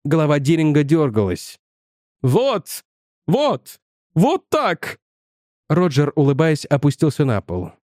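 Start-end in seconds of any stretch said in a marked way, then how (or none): 2.2-5.0 rising higher with each word; stammering in amazement, climbing up; excited outburst. A narrator's reading. Professor sees Roger levitate.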